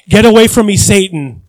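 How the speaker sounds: a loud stern rebuke, voiced lightly. Pastor voicing Jesus rebuking Peter, loud stern rebuke. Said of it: "reprimanded Peter".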